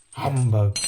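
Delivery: loud, low, gruff miser's bark; grumpy Scrooge. Acted. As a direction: dismiss the noise with a growl. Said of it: "said Scrooge".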